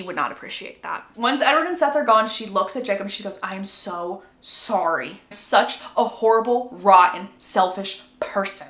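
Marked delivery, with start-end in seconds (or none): 3.4-8.7 slow, heavy self-reproach; hammed-up contrition, word by word; remorseful apology. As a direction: draw out each word of the apology. Acts Bella's heavy apology to Jacob.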